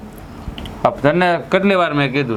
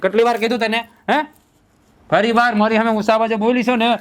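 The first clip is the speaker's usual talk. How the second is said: threatening husband. Acted. Husband threatens his wife for talking back to him, rising anger. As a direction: warn her hard never to raise her voice.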